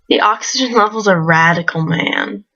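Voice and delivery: laid-back surfer dude. Acted. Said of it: "this douchey surfer dude voice".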